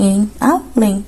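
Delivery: além, slowed, with the final -lém stressed; stressed final syllable. Shown as a demonstration. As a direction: drag out além to show it is oxítona. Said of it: "É uma oxítona terminada em". (além devagar, marcando a sílaba tônica final)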